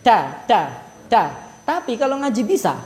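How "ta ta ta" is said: "Ta, ta, ta" repeated in a mock Lombok accent. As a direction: drop low and imitate the Lombok "ta". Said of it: "kalau ngomong ta pasti kayak gitu".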